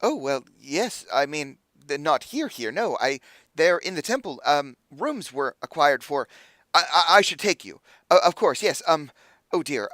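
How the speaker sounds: lightly flustered, pitched a little high; hesitant, fussing host with false starts. Acted. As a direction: stumble through an awkward explanation. Flustered host answers visitors.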